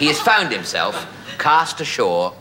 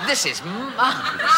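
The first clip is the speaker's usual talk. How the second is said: much higher, hammed-up cry of delight; marvelous delight; 12 semitones higher than usual. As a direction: squeal it out, overjoyed. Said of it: "he said".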